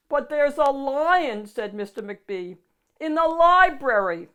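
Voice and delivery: high, loud alarmed exclamation. A narrator's reading. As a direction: blurt it out in a panic. Excited assistant reports lion.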